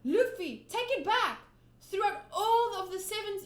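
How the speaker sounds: loud, high frantic plea; terrified boy yelling at his friend; panicked Koby. Acted. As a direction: beg him urgently at full voice. Koby urges Luffy to retract.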